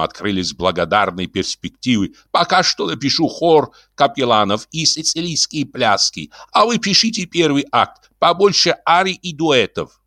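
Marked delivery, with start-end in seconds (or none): 2.3-10.0 high-pitched composer planning grandly; high theatrical character voice; Ibrahim's eager instructions. Acted. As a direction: share out the work in a high, insistent voice.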